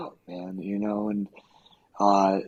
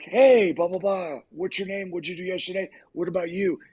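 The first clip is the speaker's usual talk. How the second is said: higher-pitched mock chatter; hey-you banter, pitched up; demonstrating an ad-libber; 5 semitones higher than usual. Shown as a demonstration. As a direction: play someone drawing people into the banter. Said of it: "like, "Look at me".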